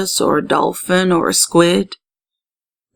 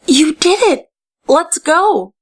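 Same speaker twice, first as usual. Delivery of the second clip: excited cheer; 10 semitones higher than usual. Acted. Inez urging Amaya to leave, excited high cheer. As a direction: cheer her on and hurry.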